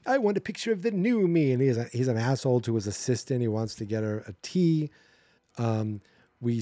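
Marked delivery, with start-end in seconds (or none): 0.0-1.5 higher-pitched indignant whine, imitated; mock-upset, stretching out the first words; upset complaint. Diva author rejecting his photo, mock upset. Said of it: "he's upset with the photo".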